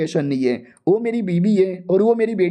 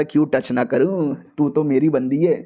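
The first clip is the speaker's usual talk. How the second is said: lightly voiced sleazy husband; leering husband; 4 semitones lower than usual. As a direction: drag it out low and smug.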